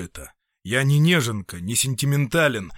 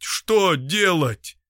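higher, very slow, drawn-out plea; despairing repeat; 6 semitones higher, 3 dB louder, much slower than usual. Acted. Doctor repeats his question, slow and despairing. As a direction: stretch it out in helpless despair.

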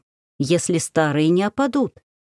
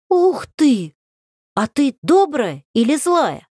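детский восторг; 8 semitones higher, slower than usual. Acted. Восхищённый мальчик расспрашивает.

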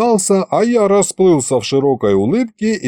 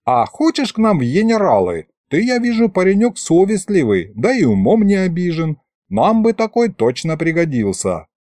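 put-on high-pitched old man recruiting; folksy grandpa, coaxing; 6 semitones higher than usual. Grandpa woos the officer to be a general, coaxing high voice. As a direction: coax him like a wheedling grandpa.

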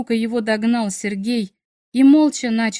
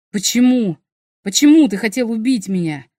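hoarse gurgling voice; 6 dB louder than usual. Acted. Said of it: "спросил он сиплым, клокочущим голосом".

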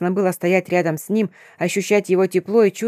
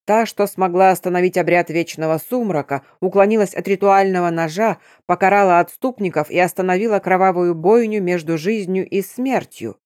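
торжественно, протяжно; продекламируй как легенду; нараспев. A narrator's reading. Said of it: "произнёс нараспев". (нараспев, как сказание)

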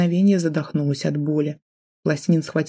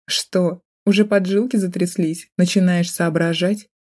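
laughing; 2 semitones higher than usual. Acted. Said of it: "захохотала я".

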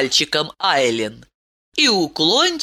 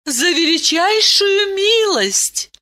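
stern; 14 semitones higher than usual. A narrator's reading. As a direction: correct him sternly. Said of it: "строго сказала Айлин". (строго и твёрдо)

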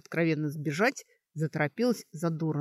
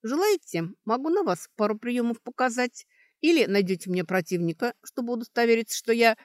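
higher-pitched desperate offer; 6 semitones higher, 5 dB louder than usual. A narrator's reading. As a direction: blurt it out with a touch of desperation. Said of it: "отчаянно сказала". (с отчаянием, повышенным голосом)

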